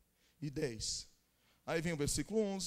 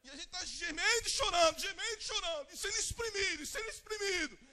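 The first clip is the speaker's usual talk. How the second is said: preaching at full force; 9 semitones higher, 14 dB louder than usual. Acted. Pastor rousing the church toward revival, roaring louder and louder. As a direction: build the congregation to revival fervor.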